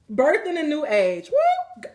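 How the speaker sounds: loud, high whoop of joy; ecstatic cry. Real, not acted. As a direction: burst out in elated celebration. Ecstatic reading of the card.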